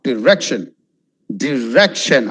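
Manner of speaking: "Direction" with "dih" at the start; careful "Direction"; correct pronunciation. Shown as a demonstration. Teacher modelling the word.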